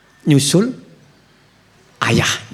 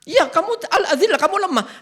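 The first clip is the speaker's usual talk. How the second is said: laughing; 13 semitones higher than usual. Real, not acted. Laughing explanation of verse.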